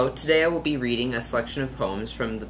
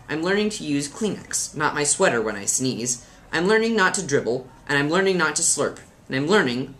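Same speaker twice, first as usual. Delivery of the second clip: put-on lilting children's poem recital; mildly theatrical verse reading; 3 semitones higher, faster than usual. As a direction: read a funny poem with lively emphasis. Reads a poem aloud.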